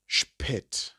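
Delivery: spät with the umlaut A said as an E, "shpet". Shown as a demonstration. Teacher showing learners the umlaut, spät with an E sound. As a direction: say spät clearly, its vowel like E. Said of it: "it now becomes the E".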